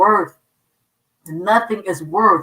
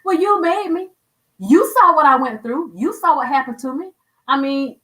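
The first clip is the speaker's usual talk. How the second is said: raised, pleading complaint, half-mocking her old self; complaining to God; 3 semitones higher than usual. Retelling how she used to complain to God, mock whiny plea. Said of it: "I used to love to tell him that".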